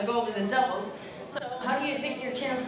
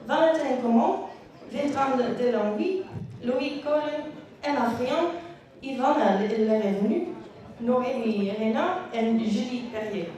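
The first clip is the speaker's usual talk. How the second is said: French accent. Shown as a demonstration. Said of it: "I did my best French accent".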